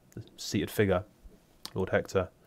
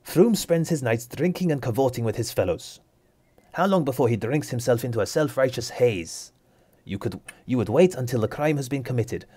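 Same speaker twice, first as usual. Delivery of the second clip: a touch of sharp indignation, a little higher; snapping back; 4 semitones higher than usual. Acted. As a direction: bite back at the judge. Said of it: "She snaps back at him".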